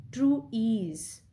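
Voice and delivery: "True" left unstressed, "ease" emphasised and held; stress on ease. Shown as a demonstration. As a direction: lean on "ease" as the iambic beat. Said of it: "So the emphasis is on ease".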